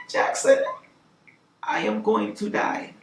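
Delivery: halting, deliberate, softly dramatic confession; imitated despairing caller. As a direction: imitate her grave announcement, pausing after the name. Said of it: "she wasn't being dramatic. She was being for real".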